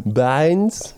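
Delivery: "Bones" said as "Baines", rising in question; trying Australian pronunciation. Retold or imitated. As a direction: try out an Aussie "Bones" like "Baines". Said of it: "Yeah, that sounds right".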